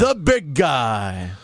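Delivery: Ryback. Acted. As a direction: shout it like a lumbering wrestler fumbling a podcast intro. Impression of Ryback starting his podcast.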